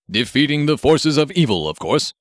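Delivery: a hint of a stiff formal hero voice; lightly voiced superhero. Grenade Man instructing Marv from the robot, lightly heroic voice.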